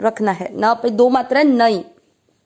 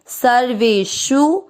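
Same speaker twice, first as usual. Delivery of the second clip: slow verse recitation; much slower than usual. Shown as a demonstration. Teacher reciting the Gita line slowly for students to follow. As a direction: chant each syllable of the verse slowly and evenly.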